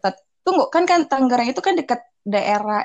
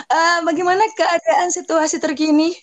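parody news anchor; 7 semitones higher than usual. Pretend. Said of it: "kayak reporter juga gitu ya".

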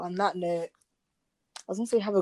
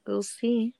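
whispering; 3 semitones higher than usual. Real, not acted. Quiet closing remark.

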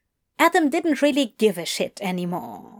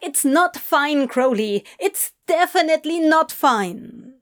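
put-on higher-pitched, agitated young character; upset Adam; 5 semitones higher than usual. Adam protesting to Crowley, upset. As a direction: protest it, worked up.

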